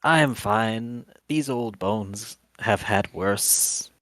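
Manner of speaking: a hint of a frail old man, unhurried; little old man voice. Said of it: "little old man voice".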